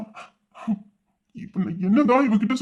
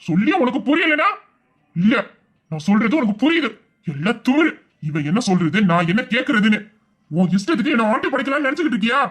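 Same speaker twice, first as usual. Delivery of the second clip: rising fury. Acted. Husband's rising fury at wife.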